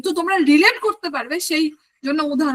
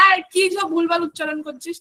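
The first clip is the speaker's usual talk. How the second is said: a mild pretend telling-off; mock scolding. People correcting someone's odd pronunciation, mock scolding. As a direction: chide in playful disbelief. Imagined listeners scolding a speaker.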